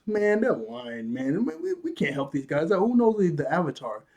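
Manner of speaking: mock dismissive kid. Sandbender kid doubting the travelers, mock dismissive. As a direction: imitate a doubter brushing them off.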